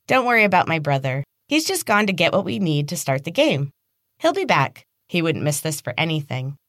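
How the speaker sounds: lightly voiced girl, sweet over menace; sly taunting girl. Evelyn taunting Casey about her brother, lightly sly. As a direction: tease with a hidden edge.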